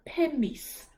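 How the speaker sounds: pum mis with a long held m, no p; pum mis demo. Shown as a demonstration. Teacher modelling Welsh numbers, pronunciation. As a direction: Pum said as pim-m, straight into mis. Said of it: "you try it".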